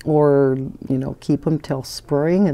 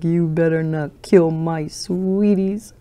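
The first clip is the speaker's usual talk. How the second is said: imitating little girl; 2 semitones higher than usual. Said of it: "She's like".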